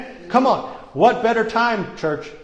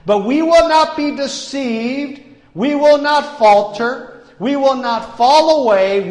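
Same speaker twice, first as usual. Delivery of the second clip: roaring rallying speech; 5 semitones higher, 3 dB louder than usual. Acted.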